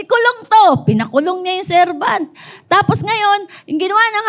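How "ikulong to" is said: angry order. Retold or imitated. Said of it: "Nagalit yung hari".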